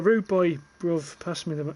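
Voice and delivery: lightly mimicked London street slang accent; mock London "bruv" talk. Streamer mocking how people talk in London, imitated London accent. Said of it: "that's like a London accent".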